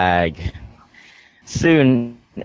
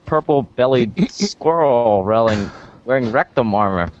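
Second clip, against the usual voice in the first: laughing; slower than usual. Real, not acted. Silly sign-off read, laughing.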